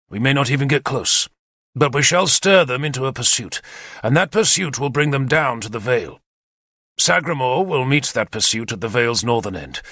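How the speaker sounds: a lightly voiced commander, brisk and eager; keen war leader briefing his captains; Arthur's plan. Arthur explains the attack to his captains, eager and confident.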